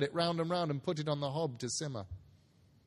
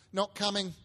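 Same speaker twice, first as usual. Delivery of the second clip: higher mock-serious mother; Mrs Cratchit teasing; 7 semitones higher than usual. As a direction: tease the father. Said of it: "said Missus Cratchit".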